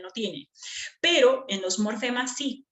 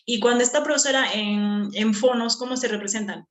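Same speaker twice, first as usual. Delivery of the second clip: lightly voiced pupil, pitched up at first; student's question; 3 dB louder than usual. Student asks teacher about notation, lightly acted question. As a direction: pretend to be a student asking the teacher.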